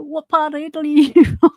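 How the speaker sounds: high, quick, loud retold question with a laugh; excited mock question. Retelling how Italians react to the borrowed accent, high excited mock question.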